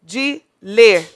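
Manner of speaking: slow, loud, syllable-by-syllable scansion; teacher scanning the verse aloud to count syllables. Shown as a demonstration. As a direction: pull the syllables apart and join vowels. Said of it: "De novo".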